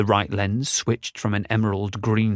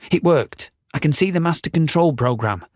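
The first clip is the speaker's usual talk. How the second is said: excited; 5 semitones higher than usual. Acted. Roger excited at success.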